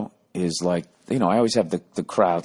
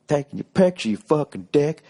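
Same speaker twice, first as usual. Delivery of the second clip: lighter heckler impression; 7 semitones higher than usual. Comic quoting the heckler to him again, lightly. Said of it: "You took it really personally".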